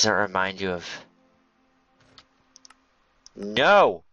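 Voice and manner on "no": loud, drawn-out protest; crying out. Real, not acted. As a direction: cry out in protest, swooping up. Crying out as something goes wrong.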